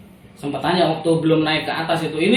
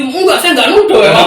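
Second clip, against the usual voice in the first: mock defensive official; 7 semitones higher, 7 dB louder than usual. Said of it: "Dia sih".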